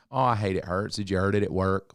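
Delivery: light, offhand "Oh, I hate it"; dismissive sympathy. Shown as a demonstration. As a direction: say it without really caring. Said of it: "That's what I would normally do".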